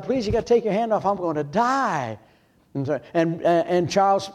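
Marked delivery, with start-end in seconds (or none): 0.0-2.2 retold begging prayer. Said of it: "begged God".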